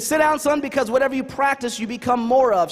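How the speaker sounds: a hint of a firm mom lecturing her son; strict mom. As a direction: imitate mom laying down the rule. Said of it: "she was very strict".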